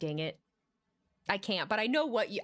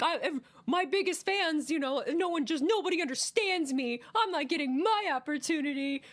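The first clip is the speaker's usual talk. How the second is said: whiny Sammy; 4 semitones higher than usual. Retold or imitated. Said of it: "He just sounds like a manipulative, like, gaslighting ex".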